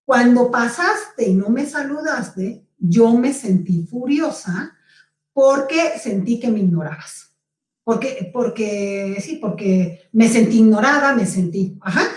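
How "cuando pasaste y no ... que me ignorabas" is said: calm assertive statement. Shown as a demonstration. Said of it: "de esta manera".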